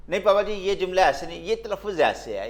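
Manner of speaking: a hint of an insistent kid correcting a parent; children correcting father. Children embarrassing their father over his English, lightly imitated correcting tone. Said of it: "میرے بچے مجھے شرمندہ کر دیتے ہیں".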